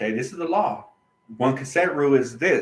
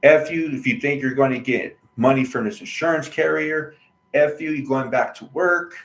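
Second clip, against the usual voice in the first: louder, heated imitation of the doctor cursing; mock angry doctor; 5 dB louder than usual. Imitating the doctor cursing at him, louder and heated. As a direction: throw the doctor's insults back, heated. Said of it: "But he said".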